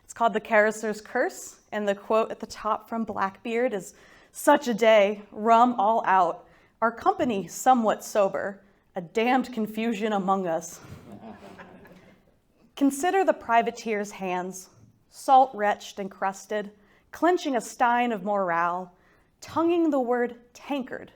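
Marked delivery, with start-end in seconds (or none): 4.3-10.8 deliberate, phrase-by-phrase epigraph reading; reciting a quotation. Acted. Reads the poem's epigraph. 12.8-21.1 deliberate, drawn-out verse delivery; poetry reading. Acted. Reads her poem.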